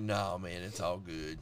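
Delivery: low, softening calm-down; mock soothing. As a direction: talk the keen friend down, dropping low. Acting out calming the eager friend.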